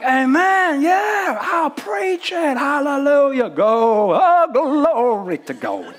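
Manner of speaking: loud, high call-and-response shouts of joy; excited African congregation. Retold or imitated. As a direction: whoop it up like a fired-up church crowd. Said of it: "people would be like".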